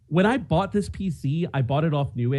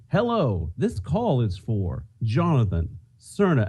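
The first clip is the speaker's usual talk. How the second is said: imitating robocall voice; 3 semitones lower, slower than usual. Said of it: "You do that really well".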